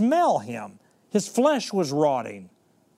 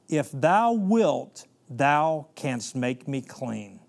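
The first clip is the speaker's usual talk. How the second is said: slow, earnest plea, drawn out word by word; pleading leper; 2 semitones lower, slower than usual. Acted. Leper on his face begging Jesus, slow earnest pleading. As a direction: beg for healing, slowly and insistently.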